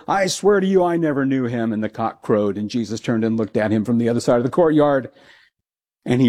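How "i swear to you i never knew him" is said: higher, pleading denial; desperate oath. Retold or imitated. Peter swears to the crowd he never knew Jesus, high and desperate. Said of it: "He goes".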